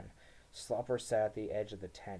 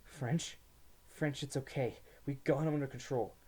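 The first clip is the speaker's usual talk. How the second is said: reasoning; 5 semitones higher than usual. A narrator's reading. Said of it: "Tree was trying to reason with me".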